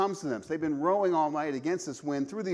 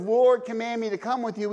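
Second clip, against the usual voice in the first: calm request; 4 semitones higher, 6 dB louder than usual. Retold or imitated. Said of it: "instead of".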